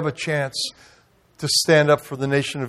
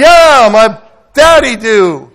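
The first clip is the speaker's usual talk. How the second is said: laughing reply; 6 semitones higher, 8 dB louder, slower than usual. Retold or imitated. Laughing at own answer.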